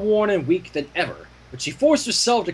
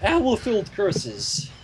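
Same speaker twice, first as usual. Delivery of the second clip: slow repeat; 2 semitones higher, slower than usual. Shown as a demonstration.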